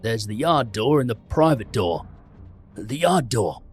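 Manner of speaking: burly barman sounding the alarm. A narrator's reading. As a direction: call out urgently. Barman alarmed about open doors.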